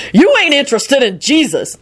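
high, indignant retort; shouting back. A narrator's reading. Servant retorts to the teasing diner, shouting back. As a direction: snap back with pitch swooping high. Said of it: "Lucretia shouted back".

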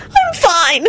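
high tearful bawl; weepy, high-pitched voice. Acted. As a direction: cry it out through tears. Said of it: "Solange bawled".

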